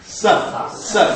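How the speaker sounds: S made with tongue touching the teeth; dental s. Shown as a demonstration. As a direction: hiss S against the teeth. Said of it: "This is dental".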